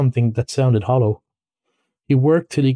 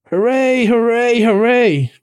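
high, repeated cheering; elated, high-pitched cheers; joyful cry; 11 semitones higher, 4 dB louder, slower than usual. Acted. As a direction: celebrate a great find. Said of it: "Suddenly the rat cried".

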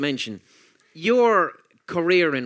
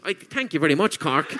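Cork accent. Real, not acted. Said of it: "you just sound like Cork".

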